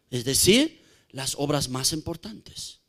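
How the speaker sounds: soft aside. Real, not acted. Preacher explaining gently to the congregation, low and soft. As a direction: drop the voice to explain.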